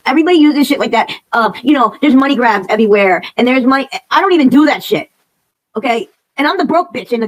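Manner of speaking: real furious venting; angry rant. Real, not acted. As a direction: vent it loudly at the world. Angry rant about money grabs.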